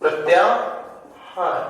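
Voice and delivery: "प्रत्याहार" stretched very slowly; slow teaching. Shown as a demonstration. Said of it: "हस". ("प्रत्याहार" धीरे-धीरे खींचकर)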